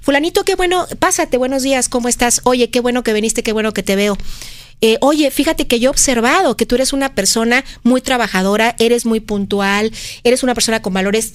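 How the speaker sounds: welcoming boss greeting an employee; mildly acted kindly encouragement; positive feedback. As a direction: praise a colleague in an easy, even voice. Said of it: "retroalimentación positiva".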